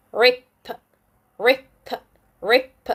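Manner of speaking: "rip" with a short "ih". Shown as a demonstration. Teacher blends a C V C word, short I. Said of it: "the short I sound".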